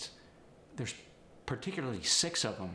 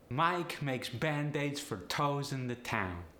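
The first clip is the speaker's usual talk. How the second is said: higher, slow Polish accent; 4 semitones higher, slower than usual. Shown as a demonstration. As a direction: Polish accent with upward-lifted diphthongs. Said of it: "upward inflection with these sentences".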